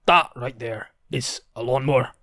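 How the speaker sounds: put-on Scottish accent at normal pitch; lightly put-on Scottish voice; attempted Scottish accent. Showing off a lawnmower, attempted Scottish accent. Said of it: "to say in a Scottish accent".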